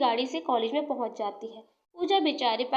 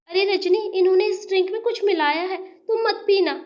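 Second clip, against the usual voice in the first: louder, higher urgent cry; urgent warning; 6 semitones higher, 5 dB louder, faster than usual. Acted. Pooja warning Rajni about the spiked drink, urgent and loud. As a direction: stop her before she drinks.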